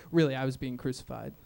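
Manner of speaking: passive-aggressive Jesus. Pretend. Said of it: "passive-aggressive Jesus".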